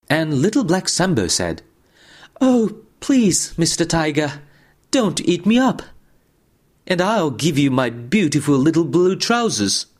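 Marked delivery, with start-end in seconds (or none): 2.4-9.9 frightened prey animal. Acted. Sambo begs the tiger.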